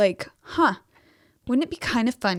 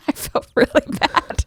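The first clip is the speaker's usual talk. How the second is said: ordinary talk, nothing marked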